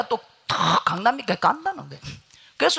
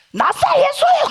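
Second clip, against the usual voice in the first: much higher, loud yelled cry; frantic shout; 6 dB louder than usual. Retold or imitated. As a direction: yell it out in a frenzy. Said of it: "하면서 막 난리가 납니다". (정신없이 크게 외치는 소리)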